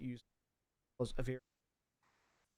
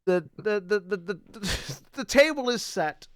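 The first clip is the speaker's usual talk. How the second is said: put-on accent drifting Spanish; 7 semitones higher, 5 dB louder, slower than usual. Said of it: "That's drifting Spanish again".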